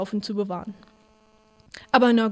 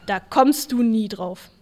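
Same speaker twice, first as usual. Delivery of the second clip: dry sneer; 3 dB louder, slower than usual. Retold or imitated. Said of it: "antwortet ihm doch tatsächlich".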